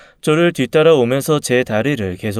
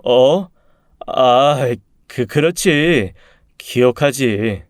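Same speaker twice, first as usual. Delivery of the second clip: startled, then halting and drawn out; flustered reply; much slower than usual. Acted. Man answering his first love at a reunion, flustered. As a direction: stumble over the words, caught off guard.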